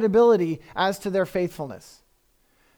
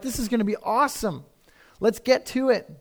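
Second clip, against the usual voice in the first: pumped; 3 semitones higher than usual. Acted. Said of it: "They're pumped".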